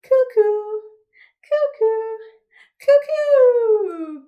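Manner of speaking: high loud cuckoo; shrill-pitched loud cuckoo call. Shown as a demonstration. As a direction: call out like a clock bird. Cuckoo clock call in song.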